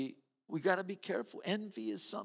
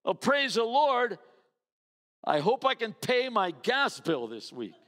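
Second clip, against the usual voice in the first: higher and louder, fake delight with a laugh; forced cheer; 6 semitones higher, 6 dB louder than usual. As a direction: praise through gritted envy. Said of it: "It's hard sometimes to go".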